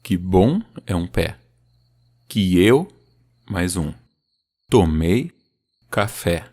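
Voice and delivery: "Que bom", "Tomei", "café" spoken foot by foot, second syllable stressed; stress breakdown. Shown as a demonstration. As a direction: pull apart each foot. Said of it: "primeira sílaba é sempre mais fraca".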